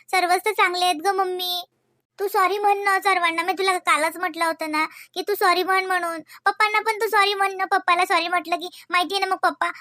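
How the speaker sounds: put-on a small child worried about her mother; little girl. Daughter urging mother to apologise.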